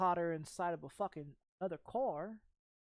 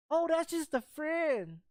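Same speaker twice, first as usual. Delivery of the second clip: imitating girlfriend; 8 semitones higher, slower than usual. Girlfriend voiced, caught cheating.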